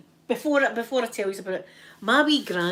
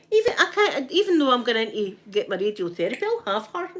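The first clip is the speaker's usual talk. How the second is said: laughing threat; 3 semitones higher, 3 dB louder than usual. Retold or imitated.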